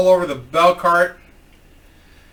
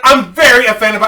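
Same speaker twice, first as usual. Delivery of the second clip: higher, louder mock indignation; acted indignant protest, pitched up; offended customer; 6 semitones higher, 8 dB louder than usual. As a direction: raise the voice in put-on offence.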